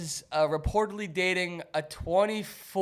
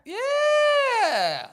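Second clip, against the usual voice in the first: yelled yeah; 6 dB louder than usual. Real, not acted. Loud high yelled agreement.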